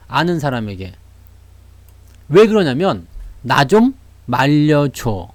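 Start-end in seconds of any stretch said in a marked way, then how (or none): 3.4-5.3 pleading for help. Retold or imitated. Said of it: "라는 그런 생각으로".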